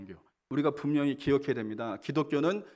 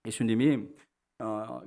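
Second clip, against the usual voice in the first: normal talking voice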